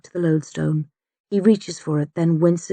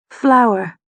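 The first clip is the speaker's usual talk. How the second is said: crying out; 4 semitones higher, 3 dB louder than usual. A narrator's reading. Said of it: "he cries".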